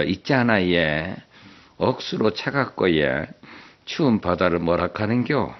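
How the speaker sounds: lightly played sweet Gyeongsang wife; coy Gyeongsang dialect. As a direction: wheedle the riddle out in Gyeongsang speech. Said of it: "아주 애교스러운 표정으로".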